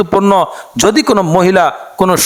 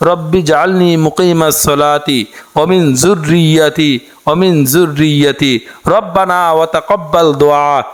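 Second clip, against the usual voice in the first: dua recitation. Acted. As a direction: draw each phrase out like a prayer. Demonstrates pronunciation.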